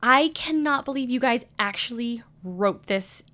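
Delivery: appalled, every word weighed; retold reaction of sheer disbelief; can't believe they put it on paper; stunned disbelief. Acted stunned reaction to script.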